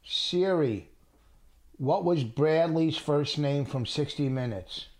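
slow, careful words for Siri; repeating to voice assistant. Real, not acted. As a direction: spell it out for the phone. Asking Siri a question.

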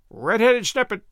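lightly squawked contemptuous insult; profound contempt. A narrator's reading. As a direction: jeer it with contempt, like a parrot. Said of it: "in a tone of profound contempt".

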